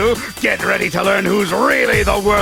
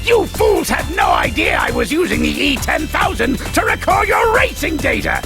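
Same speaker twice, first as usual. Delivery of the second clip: gloating villain boast; 4 semitones higher than usual. Acted. Villain gloats over his scheme.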